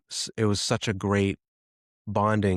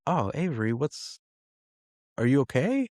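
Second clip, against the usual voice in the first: concerned dad; 6 semitones higher than usual. Retold or imitated. Dad notices daughter tearing up.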